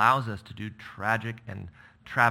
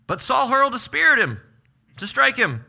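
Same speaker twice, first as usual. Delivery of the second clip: dramatic narration; 10 dB louder than usual. A narrator's reading.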